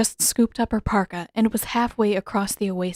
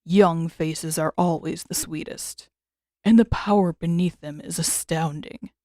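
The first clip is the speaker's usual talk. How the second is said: deep rich creature voice; 2 semitones lower than usual. Acted. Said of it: "in a deep, unnervingly rich voice".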